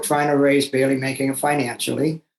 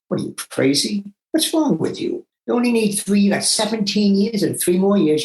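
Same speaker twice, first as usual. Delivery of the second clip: incredulous principal; 5 semitones higher than usual. Retold or imitated. Principal Dan hearing the teacher quit, incredulous and rising high. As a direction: voice jumps high in disbelief.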